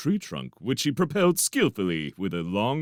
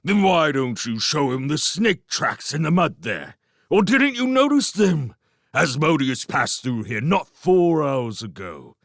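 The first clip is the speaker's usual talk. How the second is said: loud, higher angry rebuke; angry scolding; 8 semitones higher, 4 dB louder than usual. Acted. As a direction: scold the careless shrew. Log-a-Log scolding about danger.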